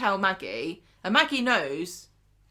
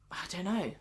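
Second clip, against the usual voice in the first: soft unvoiced whisper; 6 dB quieter than usual. Real, not acted. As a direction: breathe it out, barely voiced. Trailing whispered aside.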